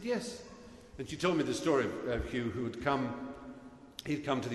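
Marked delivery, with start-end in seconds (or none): 0.0-0.4 much higher, mock posh friend explaining; Emma's voice. Emma reminds her friend who Hugh is, high mock voice. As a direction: pitch it way up like an eager friend. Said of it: "She said".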